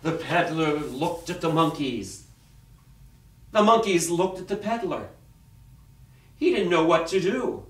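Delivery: dramatic storyteller with long pauses; story narration. A narrator's reading. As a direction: read it to children, phrase by phrase. Reads a picture story aloud.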